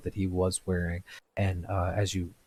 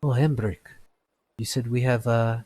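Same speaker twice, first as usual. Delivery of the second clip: higher, louder surprised smith; surprised blacksmith Avi; 4 semitones higher, 5 dB louder than usual. Acted. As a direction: react with mild surprise to the news. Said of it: "he looks over towards Embrick and he says".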